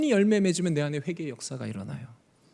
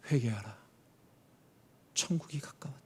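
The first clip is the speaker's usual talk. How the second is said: hushed prophet call; 6 semitones lower, 8 dB quieter than usual. Acted.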